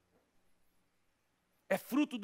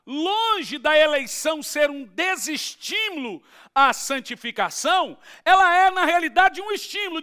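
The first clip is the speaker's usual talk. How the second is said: loud, high-pitched pulpit proclamation; full-force preaching; 7 semitones higher, 9 dB louder than usual. Real, not acted. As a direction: proclaim the verse at the top of your voice. Preaches, quoting scripture at full force.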